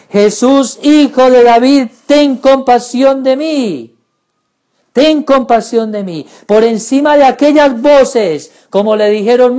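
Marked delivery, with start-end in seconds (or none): 0.1-6.3 louder pleading cry, the middle line loudest. Acted. The blind man crying out to Jesus: louder plea. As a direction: shout the plea over the crowd. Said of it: "gritar más fuerte".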